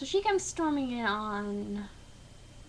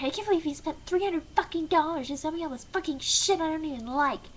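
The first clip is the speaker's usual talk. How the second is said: mock angry rant; 5 semitones higher, faster than usual. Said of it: "she's like".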